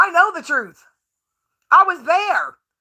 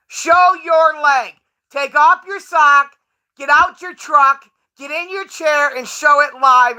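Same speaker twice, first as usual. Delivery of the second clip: taunting demand; 3 semitones higher, slower than usual. Real, not acted. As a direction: dare him, word by word.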